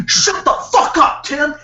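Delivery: high-pitched, strained mock yell; retold yell. Boss cutting off Tim in a meeting, mock yell. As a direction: imitate an enraged boss yelling. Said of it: "yelling at Tim".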